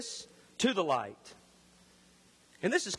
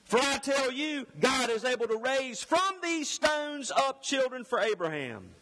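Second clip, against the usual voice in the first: raised, driving scripture declamation; loud preaching; 5 semitones higher than usual. Acted. Herald warning the crowds of judgment, forceful preaching. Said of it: "I'm gonna have to be loud".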